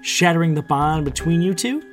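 high, triumphant explaining; villain's gloating. A narrator's reading. Villain revealing her plan to bring magic back, gloating. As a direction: lay out your plan with relish.

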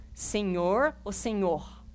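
"Senhor" plain, then "senhor" with a carioca r; two pronunciations. Shown as a demonstration. Pastor asks Mel which "Senhor" sounds nicer. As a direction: contrast the two ways to say "Senhor". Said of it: "qual que você acha mais bonito".

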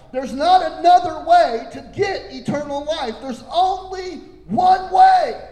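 rising to a full shout; preaching shout. Real, not acted. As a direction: hammer home "There's only one way" at top volume. Preacher building to climax.

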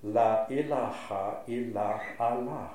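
"La ilaha illa Allah" said slowly, long consonants and open vowels; slow Arabic recitation. Shown as a demonstration. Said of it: "Just listen to it in the, in Arabic transliteration".

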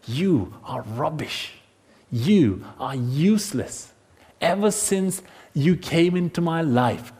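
cold contempt. Acted. Husband or wife blames the other, cold contempt. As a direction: lay the blame deliberately, word by word. Acts out a relative's verbal abuse.

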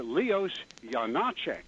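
Janáček as YA-naa-chek, Czech style; Czech pronunciation. Shown as a demonstration. Caller naming the Czech composer, in Czech pronunciation. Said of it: "the appropriate Czech pronunciation".

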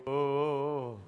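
a low imitated groan of prayer; mild prayer groan. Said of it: "He'd start groaning".

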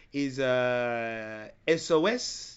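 imitated hesitant French caller; lightly put-on French accent with drawn-out filler; French-accented tentative question. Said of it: "I instantly heard the accent".

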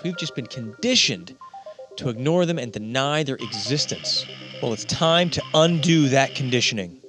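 upbeat promo voice over music; ad read. Acted. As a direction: read it like a podcast ad.

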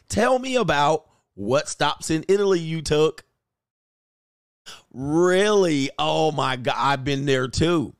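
mock chummy investigator; fake friendly interrogation. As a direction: sweetly pump him for information.

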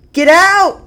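high, loud terrified scream. A narrator's reading. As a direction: scream it at the door. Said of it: "Liz screamed".

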